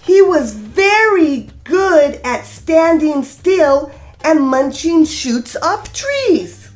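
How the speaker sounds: gentle sing-song storybook reading; lilting read-aloud for a class; reading to children. A narrator's reading. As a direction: read it like storytime for little kids. Reads picture book aloud.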